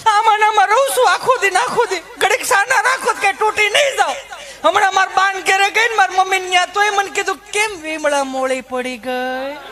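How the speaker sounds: high, chatty rustic wife voice; high housewife rant about husband and kids; village housewife. Retold or imitated. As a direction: gossip and grumble like a harried mother. Held housewife character.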